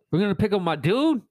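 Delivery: put-on high, hyped little boy voice; excited kid. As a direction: act out a thrilled kid. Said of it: "He's like".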